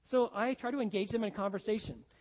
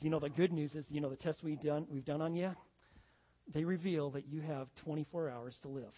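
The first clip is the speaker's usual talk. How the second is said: doctor delivering news; 4 semitones lower than usual. Retold or imitated. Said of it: "the doctor says".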